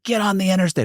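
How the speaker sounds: high, mock-panicked voice; frantic urging. Partner urging him to flee police, mock frantic. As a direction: urge escape in a high, frantic imitation.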